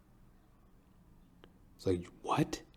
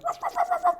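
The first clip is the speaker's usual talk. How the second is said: dog barks; faster than usual. Retold or imitated. Imitating dogs barking.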